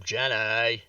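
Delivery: lightly drawn-out Southern "Jenny", ending in "-ay"; a hint of simple Southern drawl on "Jenny"; Forrest Gump. Player teases co-host's character name, light Forrest Gump impression. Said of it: "Vex is playing Forrest Gump".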